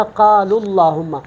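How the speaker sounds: "اللہم" with a heavy, dark L; slow recitation, "قال" running into a full "اللہم"; full lam. Shown as a demonstration. Teacher shows the joined reading, heavy L in "اللہم". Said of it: "پر پڑھتے ہیں".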